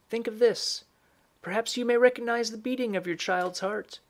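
lightly played old woman instructing the mother; old woman character. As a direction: voice the old woman a little high.

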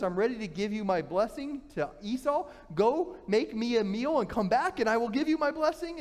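put-on a blind old father asks his son for a meal; old father's request. Aging father Isaac speaks.

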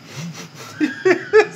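squealing laugh of disbelief; giddy high laugh. Real, not acted. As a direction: laugh out in delighted shock. Giddy laugh after win.

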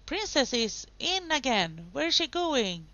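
excited race commentary. Real, not acted. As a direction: call the race like a thrilled commentator. Live excited commentary on sim race.

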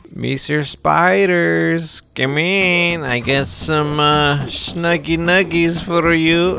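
mock coaxing host. Coaxing spiders to come eat.

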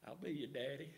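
soft, hushed voice of God; God's soft reply to a scared young father; still small voice. Retold or imitated. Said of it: "still small voice".

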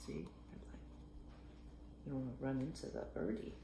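soft pointing whisper; hushed aside about the light. Real, not acted. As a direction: whisper it as a hint.

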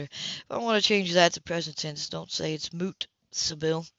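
understated stern man; lightly voiced Philip. Philip voiced in a read novel.

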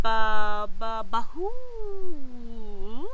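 loud stammer into a drawn-out hoo; stutter, then let it wail out slowly; Gilbert. A narrator's reading. Ghost pupil failing to say boo, stammering. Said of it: "Gilbert stammered".

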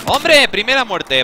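loud, high-pitched exclamation; real high shout, easing slightly; excited outburst. Real, not acted. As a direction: shout it out at the first kill. First death in the game.

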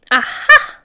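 loud gotcha; triumphant matron. A narrator's reading. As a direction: pounce on the find. Matron finds the boy.

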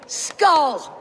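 a hearty Skál; toast cheer. Acted. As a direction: shout the toast. Drinking toast.

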